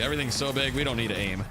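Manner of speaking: a lighter repeat of the brag; half-hearted mock-proud line; milder mock American boast. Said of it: "we do it bigger in America".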